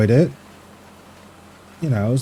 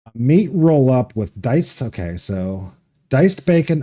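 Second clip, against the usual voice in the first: slow, careful read-aloud of a description; deliberate reading, taking time over each item; reading slower; slower than usual. Real, not acted. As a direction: read it out slowly, piece by piece. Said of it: "read that entire description again slower".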